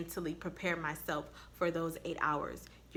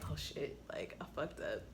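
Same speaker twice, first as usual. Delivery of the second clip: sheepish realization; 5 semitones lower, 8 dB quieter than usual. Retold or imitated. Realizing she went too far.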